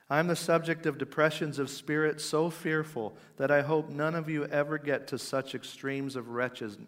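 lightly declaimed confession from the pulpit; Spurgeon. Retold or imitated. Spurgeon confessing depression to his congregation, earnest quoted preaching. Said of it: "This is how he's speaking to his congregation".

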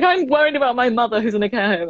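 a hint of mum fretting about grandma; imitating mum. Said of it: "she was being like".

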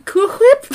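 high, loud "Whip" starting with "hw"; emphasis on H. Retold or imitated. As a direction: blow out the H in "Whip". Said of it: "so much emphasis on the H".

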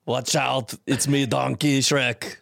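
put-on slow Arnold accent; drawn-out Austrian action-hero accent; playful Arnold-style accent; Arnold Schwarzenegger accent. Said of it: "our man Arnold would have done it".

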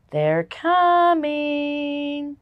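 slow, drawn-out ominous announcement; ominous movie voice. Shown as a demonstration. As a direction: say it like a horror movie trailer. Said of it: "Does it sound like an alien movie".

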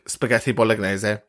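"spaghetti bolognese" with bolognese ending in an Italian -ay-zeh; Italian pronunciation. Shown as a demonstration. Host laying down the law, Italian-style "spaghetti bolognese". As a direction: pronounce "bolognese" the Italian way, final vowel sounded. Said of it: "you just have to say it like that".

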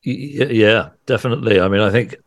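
hoarse, scratchy voice; raspy voice. Real, not acted. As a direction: speak through a sore, hoarse throat. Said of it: "forgive my voice".

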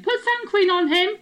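high, loud voice of a small mother; mother's all-caps text. Retold or imitated. Mother's caps text read in her high loud voice. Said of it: "small, high-pitched Asian".

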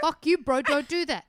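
punchy mock indignation; mock telling-off. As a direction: play at calling out a mate, loudly. Co-host voices the same telling-off.

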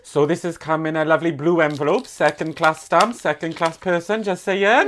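lilting put-on Welsh accent. Introducing a listener's letter from Wales in a Welsh accent. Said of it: "I can do my Welsh accent".

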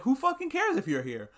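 sharp, high, fed-up retort; annoyed kid voice. Retold or imitated. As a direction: snap back like a bratty sick kid. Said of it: "And he's like".

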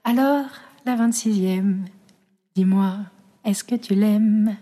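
slow, dramatic slam poem recital. Acted. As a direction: declaim each line like a stage poet. Recites her poem over music.

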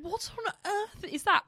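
high, loud disbelief; shocked shout. Retold or imitated. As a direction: cry out in disbelief. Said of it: "She's like".

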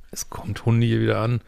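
hoarse whisper, voice giving out; losing her voice; voice failing. Real, not acted. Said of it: "bevor meine Stimme jetzt wieder versagt".

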